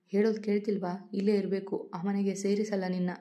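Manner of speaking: plain reading voice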